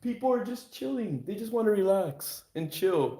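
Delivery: exasperated. Retold or imitated. Streamer complains to trolls that people just want to chill. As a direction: plead for calm, annoyed. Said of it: "and I'm just like".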